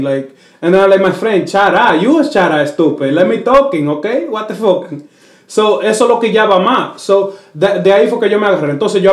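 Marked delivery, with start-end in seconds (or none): 1.5-2.0 put-on "Shut up" as "char ah" in a thick Dominican accent; mock heavy Dominican accent on "Shut up". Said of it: "My accent was so heavy". 2.0-4.9 lightly put-on thick Dominican-accented English; imitated Dominican learner's English, talking back; heavy Dominican accent. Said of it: "My accent was so heavy".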